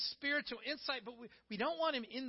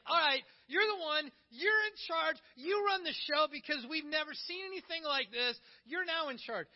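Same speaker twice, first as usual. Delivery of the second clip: eager, louder crowd voice, a bit higher; excited crowd; 4 semitones higher, 4 dB louder than usual. Retold or imitated. Crowd fired up after the bread, crowning Jesus, eager and loud. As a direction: hail him as king with mock excitement. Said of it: "They were like".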